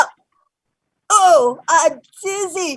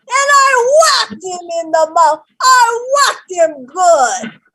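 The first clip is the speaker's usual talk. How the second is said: high, loud boasting of the hit; proud triumphant shout; 4 semitones higher, 5 dB louder than usual. Retold or imitated. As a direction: crow about the whack. Grandma proudly retells hitting attacker.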